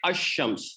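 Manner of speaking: अशम्स with the l dropped; अशम्स, sh doubled, no lam; silent lam. Shown as a demonstration. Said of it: "ये silent हो जाती है".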